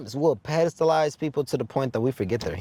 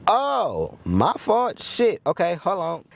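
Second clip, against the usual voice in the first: flustered surprise; 6 semitones higher, slower than usual. Retold or imitated. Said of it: "And I was like".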